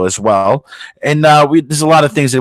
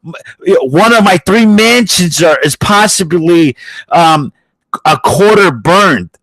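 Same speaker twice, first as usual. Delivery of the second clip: mocking rich celebrity; 3 semitones higher, slower than usual. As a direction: whine like a pampered millionaire. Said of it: "It goes like".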